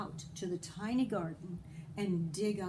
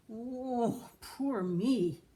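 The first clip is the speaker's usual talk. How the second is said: wail; 4 semitones higher, 4 dB louder, much slower than usual. A narrator's reading. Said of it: "wailed Jamie".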